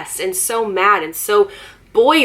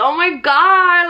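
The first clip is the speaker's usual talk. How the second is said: much higher, louder, sarcastic; sarcastic gasp; 9 semitones higher, 3 dB louder, slower than usual. Retold or imitated. Sarcastically praising the rude girl with a high fake gasp. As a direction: fake amazement, slow and high. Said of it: "I was like".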